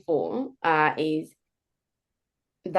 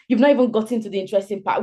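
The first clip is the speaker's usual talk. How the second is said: Nigerian storyteller; 5 dB louder, faster than usual. Retold or imitated. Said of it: "you know how Nigerians talk like".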